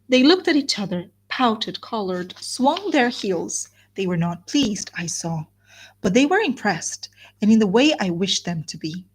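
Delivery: measured literary narration with lively emphasis; storyteller reading to listeners; novel read aloud. A narrator's reading.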